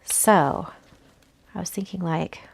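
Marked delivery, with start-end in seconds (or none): 1.5-2.4 whispering. Real, not acted. Crafter musing to herself.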